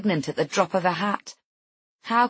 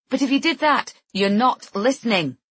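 sharp, louder and higher; 5 semitones higher, 4 dB louder than usual. Acted. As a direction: cut her off sharply. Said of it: "I say sharply".

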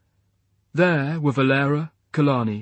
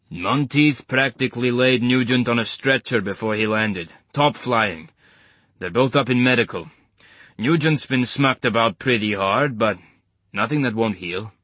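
put-on Eastern European accent. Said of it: "in his gloriously thick Eastern European accent".

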